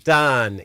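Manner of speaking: "Dun" drawn out slowly, open vowel; pronunciation as heard. Shown as a demonstration. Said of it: "Sounds like".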